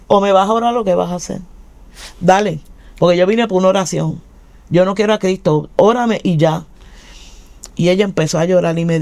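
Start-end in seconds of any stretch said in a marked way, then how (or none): 0.1-6.6 defiant retort. Retold or imitated. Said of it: "me le paro así y le dije".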